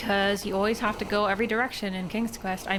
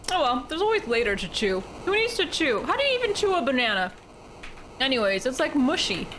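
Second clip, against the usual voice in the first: giddy; 7 semitones higher than usual. Real, not acted. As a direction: bubble over with silly giddiness. Giddy rant about chewing bananas.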